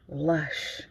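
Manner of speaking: drawn-out, savoured "Lush"; savoured word. Shown as a demonstration. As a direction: let "Lush" melt in the mouth, softly. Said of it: "Oh, you just gotta say it".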